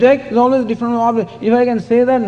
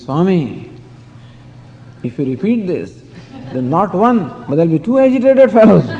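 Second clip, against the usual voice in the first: exasperated disciple. Retold or imitated. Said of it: "the fellow got so agitated".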